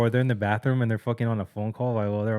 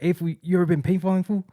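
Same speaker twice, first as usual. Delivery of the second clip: cholo coworker; 8 semitones higher, 4 dB louder than usual. Retold or imitated. Coworker voiced in story.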